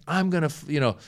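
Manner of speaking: hammed-up outraged commenter; mock upset. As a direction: act out an indignant troll. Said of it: "he was clearly upset".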